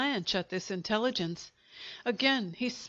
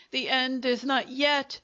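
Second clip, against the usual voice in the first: higher, louder angry shout; 4 semitones higher, 3 dB louder than usual. Acted. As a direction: shout a furious vow. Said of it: "he shouted".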